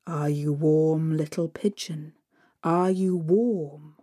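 lightly voiced Father Frost. Father Frost third time.

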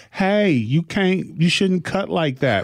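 mild, drawn-out protest with no threat in it; non-threatening man. Retold or imitated. Man timidly objecting to a woman cutting in line, non-threatening. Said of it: "He was a non-threatening voice".

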